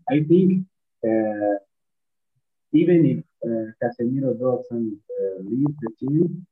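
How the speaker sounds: muffled, like a covered mic; talking with the mic covered. Real, not acted. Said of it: "your voice is very muffled".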